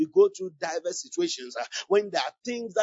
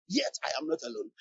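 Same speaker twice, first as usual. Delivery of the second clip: Yet I am not alone said much softer and quicker; quiet repeat; 3 semitones higher, 9 dB quieter, faster than usual. Shown as a demonstration. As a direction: drop almost to a murmur on alone. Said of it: "you can say".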